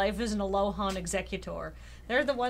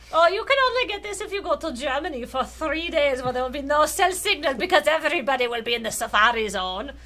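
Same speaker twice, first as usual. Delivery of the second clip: loud, raised theatrical villain sneer; generic villain voice; 4 semitones higher, 6 dB louder than usual. Acted. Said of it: "That's just my generic villain voice".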